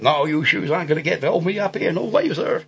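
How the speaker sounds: mock old Hollywood West Indian accent, defiant from up a tree; bad film-style West Indian accent; cliched West Indian accent. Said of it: "with a very cliched West Indian accent".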